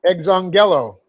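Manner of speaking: exongelo with a full "GEL" syllable; accent exongelo on GEL, with a clear "eh" vowel; corrected accent. Shown as a demonstration. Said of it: "get the accent on the right syllable".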